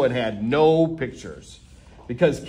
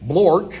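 silly nonsense word; 3 semitones higher, 5 dB louder than usual. Acted. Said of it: "That doesn't even s-, mean anything".

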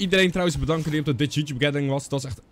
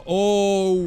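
startled; 6 semitones higher, 4 dB louder than usual. Real, not acted. Sudden startle in game.

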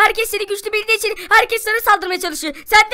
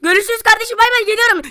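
high-pitched, raised put-on voice; friend's voice; 5 semitones higher, 4 dB louder than usual. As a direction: sign off in a high character voice. Friend signs off the call. (tiz sesli arkadaş vedası)

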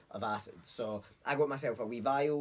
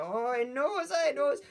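high mock panic; 13 semitones higher, 6 dB louder, slower than usual. Retold dawning panic.

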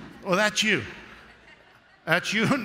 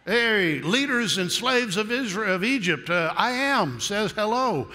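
a slightly higher, lightly hammed-up herald call; mock announcement; 5 semitones higher than usual. Moses picturing his awkward speech to Israel, mock herald. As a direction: announce it sheepishly, slowing at the end.

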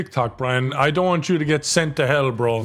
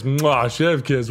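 chef's kiss; much slower than usual. Pretend.

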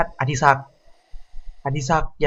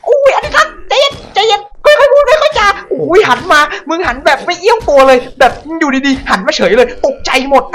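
shrill terrified shrieks, much higher and louder; panicked screaming; 8 dB louder than usual. Real, not acted. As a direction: scream in panic as the zombie spins round. Zombie turns, player panics.

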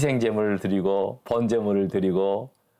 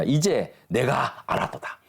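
slow scripture reading; 3 semitones higher than usual. Shown as a demonstration. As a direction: read slowly and evenly, 이제 lightly weighted. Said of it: "제가 읽어보겠습니다". (천천히 성경 구절을 읽듯이)

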